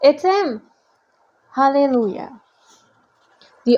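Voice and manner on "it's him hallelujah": pitched-up little cheer; gleeful hallelujah; mock celebration. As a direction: rejoice with playful relief. Reader celebrates recognising the character.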